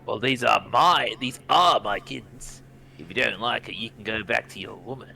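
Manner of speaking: put-on thick American accent. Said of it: "very thick American accent".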